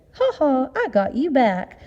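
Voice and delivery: teasing, triumphant and high; gloating. Acted. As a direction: rub it in playfully. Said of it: "and gloated".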